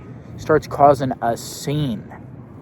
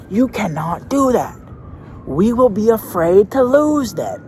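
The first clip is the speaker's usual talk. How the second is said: put-on much higher, louder, slow child's whine; whiny kid protest; 10 semitones higher, 5 dB louder, slower than usual.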